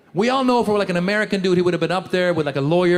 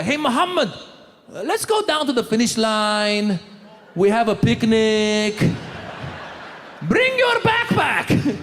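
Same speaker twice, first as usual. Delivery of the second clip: mock friend on the phone; slower than usual. Imagined phone call friend.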